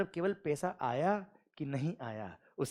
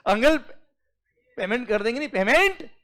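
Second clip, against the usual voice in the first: firm demand; 4 semitones higher than usual. Retold or imitated. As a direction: plant your feet and demand the payment. Employee finally insists to uncle. (ज़ोर देकर पैसे की माँग)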